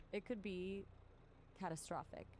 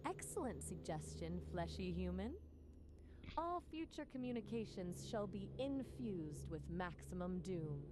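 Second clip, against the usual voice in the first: a hammed-up cartoon robot proclaiming; robot like Gur. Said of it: "Doom it is".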